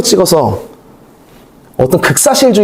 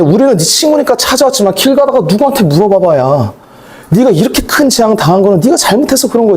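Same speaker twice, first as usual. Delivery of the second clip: higher, lecturing friend voice, half-acted; Eliphaz scolding Job; 5 semitones higher than usual. Eliphaz lecturing Job, a lightly acted higher scolding tone. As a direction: scold him like a know-it-all friend. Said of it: "엘리바스가 무슨 얘기를 하느냐?".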